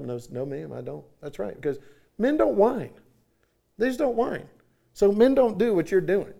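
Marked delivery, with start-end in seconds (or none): 0.0-1.0 put-on boy's answer. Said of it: "Do you hear your father".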